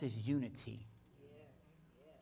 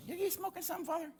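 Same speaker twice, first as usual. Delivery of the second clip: much higher, laughing incredulous question; laughing disbelief; faster than usual. Retold or imitated. Pastor imitating his reply to God, laughing in disbelief. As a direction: laugh it off as absurd.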